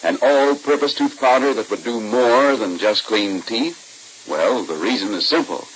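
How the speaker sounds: bright, upbeat announcer selling the product; radio ad read. Acted. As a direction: sell it like a vintage radio pitchman. Announcer reads tooth powder commercial.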